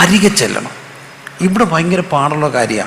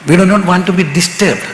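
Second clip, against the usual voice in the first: very slow, each word spaced out; slow deliberate English; 4 semitones higher, much slower than usual. Acted. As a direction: spell it out slowly for emphasis. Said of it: "English aside, measures clear". (പതുക്കെ ഓരോ വാക്കും ഊന്നി)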